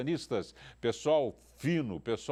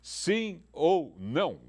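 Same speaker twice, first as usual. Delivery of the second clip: slow sing-song question; 4 semitones higher, 4 dB louder, much slower than usual. Shown as a demonstration. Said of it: "Não precisa gritar".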